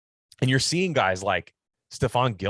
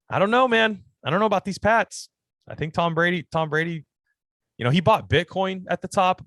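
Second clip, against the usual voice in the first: much higher and louder, throwing up your hands at the Pats; worked-up disbelief; 9 semitones higher, 4 dB louder than usual. Real, not acted. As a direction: rant it like a fed-up fan. Mock-exasperated rant about the Pats.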